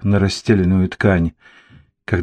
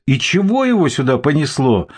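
furious; 6 semitones higher than usual. Acted. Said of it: "с яростью воскликнул Борис".

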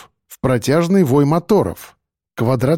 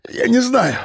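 much higher, panicked foreign prisoner voice; frightened stammer; 9 semitones higher than usual. A narrator's reading. Captured Richard answering his captor, panicked and high. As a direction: choke out the words in fear. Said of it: "Он захлебнулся словами".

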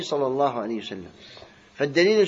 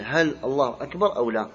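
questioning tone. Shown as a demonstration. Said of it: "كأنه يسأل".

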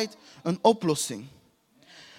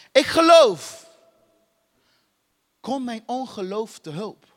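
father crying out; slower than usual. Retold or imitated. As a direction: cry it out like the desperate father. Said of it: "De vader schreeuwde".

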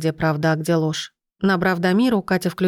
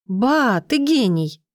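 a higher, bright cry of sudden realisation; excited exclaim; 4 semitones higher, much slower than usual. A narrator's reading. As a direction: blurt it out as the idea hits. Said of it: "воскликнула она". (радостно воскликнуть)

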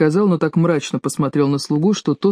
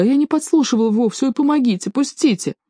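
high, whining protest; frightened servant caught eavesdropping, whimpering; 8 semitones higher than usual. A narrator's reading. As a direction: wail to be let go. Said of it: "захныкал слуга".

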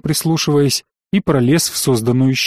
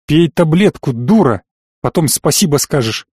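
barking. Acted. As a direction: snap the order harshly. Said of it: "гаркнули в комнате". (слегка гаркнуть, громче)

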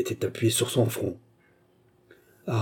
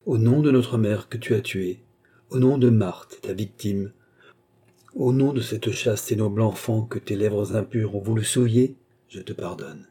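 coldly. Acted. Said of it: "dit froidement".

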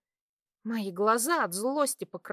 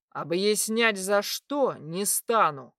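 barked; slower than usual. Acted. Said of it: "рявкнул медведь".

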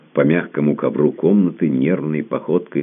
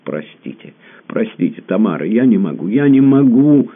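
sobbing plea; 9 semitones higher, 7 dB louder than usual. A narrator's reading. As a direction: beg through sobs, breaking at the end. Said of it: "с рыданиями вырвалось у него".

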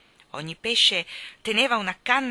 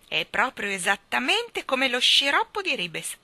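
higher, louder exclamation; delighted cry; 6 semitones higher, 6 dB louder than usual. Acted. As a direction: cry out after the gulp. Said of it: "gridò". (grido entusiasta)

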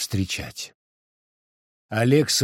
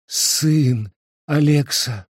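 lightly voiced mother near tears; chest voice, ringing, breaking; 5 semitones higher, much slower than usual. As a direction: tell him of his son, voice close to breaking. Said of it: "Грудным, звенящим, срывающимся голосом". (грудным, звенящим, срывающимся голосом)

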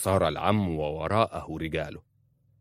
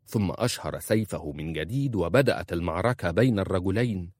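ordinary delivery

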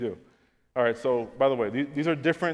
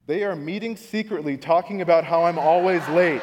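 laughing paranoia; 3 semitones higher, 8 dB louder than usual. Retold or imitated. Paranoid imagined gossip.

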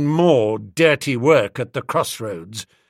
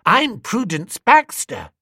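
put-on high, slow, haughty childish reply; a small girl putting him in his place; scornful little girl; 8 semitones higher, 4 dB louder than usual. A narrator's reading. Little girl scornfully correcting Bertie, high and slow. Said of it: "registering scorn".

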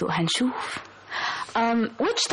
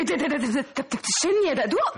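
laughing; 4 semitones higher, much faster than usual. Real, not acted. Shocked at the fake insult.

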